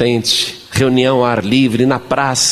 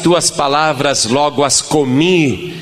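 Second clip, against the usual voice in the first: leitura bíblica; slower than usual. Acted.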